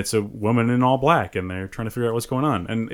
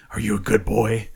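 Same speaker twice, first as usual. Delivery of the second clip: vampire voice. Retold or imitated. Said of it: "growling at him and doing her vampire voice".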